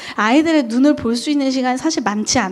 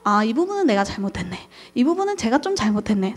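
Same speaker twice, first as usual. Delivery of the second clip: self-reflection; 5 dB quieter than usual. Retold or imitated. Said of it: "스스로".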